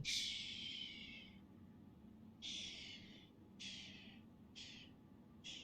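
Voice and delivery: soft whispered shh; breathy shushing. Real, not acted. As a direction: hush yourself. Shushing herself.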